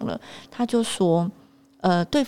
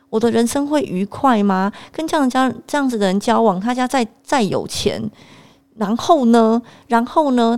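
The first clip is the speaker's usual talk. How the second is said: heated, rising rant at mom; exasperated lecture, louder at its peaks; retold rant; 3 semitones higher, 3 dB louder than usual. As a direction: scold mom in the car, building up. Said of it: "大骂".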